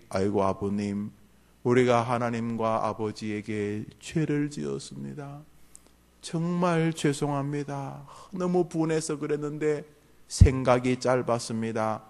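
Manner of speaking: acted contrite sons, softly; hushed, humble apology to a father; imagined apology. Sons apologizing to their father for their wrong, softly contrite. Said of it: "라고 말할 줄 알았죠".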